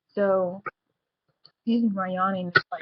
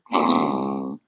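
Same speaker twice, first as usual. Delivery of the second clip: imitated fart; 4 dB louder than usual. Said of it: "I legitly farted".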